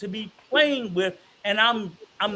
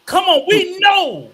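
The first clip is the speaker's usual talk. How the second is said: loud preaching; 4 semitones higher, 5 dB louder than usual. Real, not acted. Preaching to black men.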